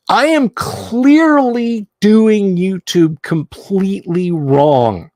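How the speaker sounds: dramatic lament. Acted. Self-mocking dramatic lament.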